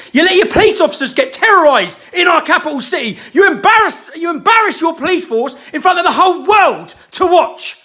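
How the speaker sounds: shouted, rising outrage; angry shout. Real, not acted. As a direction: hammer the police with blame. Ranting at the police.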